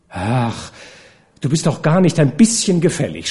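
a sulky pout. Acted. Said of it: "schmollte sie".

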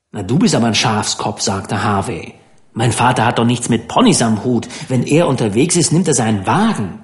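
quick, superior scoff; a hint of a snob brushing him off; scornful rich boy. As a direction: talk down to the simple boy. Harvey scoffs at Dan.

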